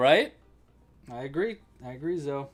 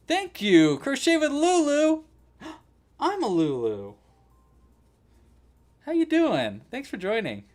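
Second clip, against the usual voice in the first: excited greeting; 13 dB louder than usual. Real, not acted. Greeting a livestream viewer.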